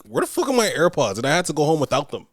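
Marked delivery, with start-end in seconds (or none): 0.1-1.2 exasperated demand. Retold or imitated. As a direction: demand it, fed up. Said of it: "To the point where I'm like".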